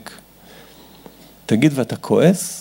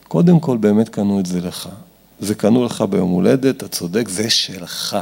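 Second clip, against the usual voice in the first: low, soothing reassurance; calm validation; 5 semitones lower than usual. Acted. Parent validating angry child before asking him to share, low calm reassurance. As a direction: settle the child gently, in a lower voice.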